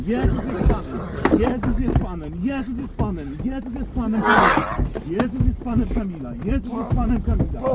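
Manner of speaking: loud, forceful rebuke; commanding shout. Real, not acted. Commanding the demon to leave.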